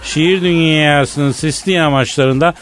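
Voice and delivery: booming poetic announcer; grand announcement. Acted. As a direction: announce poetry time with pomp. Announces poetry time grandly.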